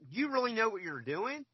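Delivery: high-pitched, pointed challenge; disrespectful questioning. Shown as a demonstration. Player doubting the referee to their face, disrespectful. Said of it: "That's disrespectful".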